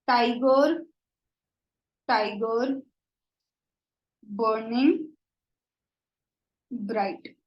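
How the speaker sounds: slow, spaced recital of the line; measured poetry reading; poem recital. Shown as a demonstration. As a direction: read the verse aloud with long pauses. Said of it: "the stress is on".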